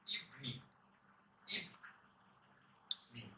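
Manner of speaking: ইভিনিং as two syllables, iv-ning; correct pronunciation. Shown as a demonstration. Teacher modelling slowly for learners, correct pronunciation. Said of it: "আমরা উচ্চারণ করব".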